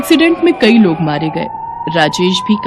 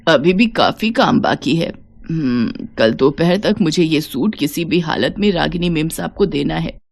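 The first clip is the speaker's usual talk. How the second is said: a lightly voiced weary old woman, lower and soft; tired old woman; 3 semitones lower, 4 dB quieter than usual. Old Savitri sewing at 2 am, weary murmur. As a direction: mumble to herself, worn out.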